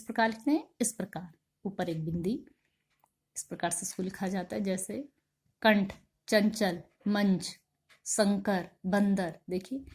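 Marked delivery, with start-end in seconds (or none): 5.6-9.4 कंठ, चंचल said slowly with the nasal sound pushed out; slow nasalized word demo; nasal anusvara demo. Shown as a demonstration. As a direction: sound out each anusvara word slowly, air through the nose. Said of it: "इन सबका उच्चारण थोड़ा जोर से".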